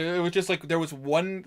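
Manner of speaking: normal talking voice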